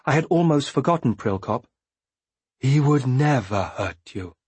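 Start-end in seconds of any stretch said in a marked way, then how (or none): 2.6-4.4 slow, gentle insistence; quiet reassurance. A narrator's reading. Prilkop repeats his promise to Bee, quietly. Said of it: "he repeated quietly".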